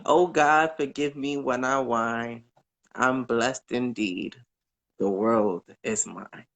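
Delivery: a caller reciting an inspirational poem; poem recital. Acted. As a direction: recite it like a heartfelt blessing.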